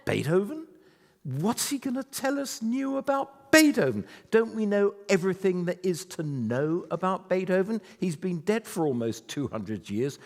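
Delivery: audience's skeptical thought. Pretend. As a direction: voice the doubting audience, mock disbelief. The bubble coming out of your head.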